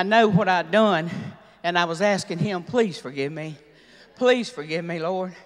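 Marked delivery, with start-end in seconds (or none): 2.6-5.3 tearful plea. Retold or imitated. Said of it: "I was crying like a baby".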